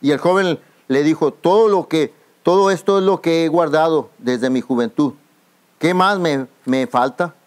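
fervent preaching, pushing the words out. Acted. Pastor preaching to the congregation, fervent and forceful.

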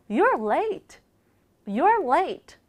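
You're late with a barely released t; lightly touched T. Shown as a demonstration. Teacher modelling you're late, final T just touched. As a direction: end late short, t only touched. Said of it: "T 발음은 살짝만 발음해 주셔야".

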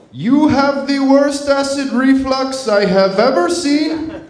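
mock Russian doctor voice, lightly done; Russian accent. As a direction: quote the Russian doctor with a hint of his accent. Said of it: "He's Russian, so I'll drop the accent".

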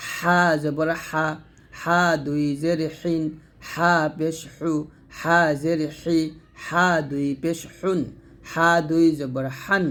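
slow drill, thin h in হা, হিন, হু. Shown as a demonstration. Teacher drills learners on a slow, thin হা. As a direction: keep every h in হা, হি, হুন thin. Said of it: "চিকন করে বলতে হবে।".

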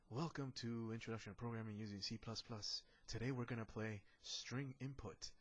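smooth radio announcer intro; radio host voice. Pretend. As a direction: open it like a morning radio show. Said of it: "I sound like a radio host".

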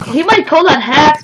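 hacks with a Russian accent; Soviet accent. Real, not acted. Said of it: "the way you said hacks".

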